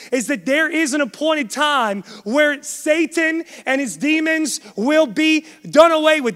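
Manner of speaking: urgent, emphatic sermon delivery; forceful preaching. Real, not acted. Preacher telling the church that the enemy's time nears, forceful. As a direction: drive each phrase home like a preacher. Preacher drives home the warning.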